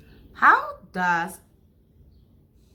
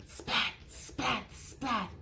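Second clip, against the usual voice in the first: soft, sharp "splat" bursts; lightning crackle; 10 dB quieter, slower than usual. Shown as a demonstration. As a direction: imitate lightning in quick soft spats. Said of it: "He makes lightning".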